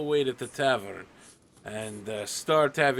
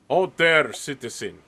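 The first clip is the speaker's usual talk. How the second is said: loud, raised-pitch command; guard's challenge; 6 dB louder than usual. Acted. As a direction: call out a halt as a guard. Guard challenges the player at sword-point.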